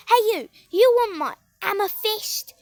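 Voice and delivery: lightly acted tough line; mock challenge. Shown as a demonstration. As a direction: challenge a pretend bully. Shows what to say to bully.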